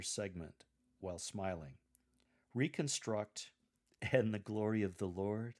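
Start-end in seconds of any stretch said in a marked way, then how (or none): 4.0-5.5 "And the glory of the Lord" rising like a question; asked as a question. Shown as a demonstration. A lector asking the congregation, rising question. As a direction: lift the end of "Lord" into a question. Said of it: "as a question rather than a statement".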